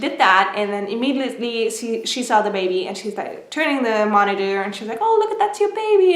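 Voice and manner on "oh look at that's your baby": high, quick retold exclamation; excited doctor. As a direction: imitate a doctor eagerly pointing out the baby. Doctor first showing the baby on monitor.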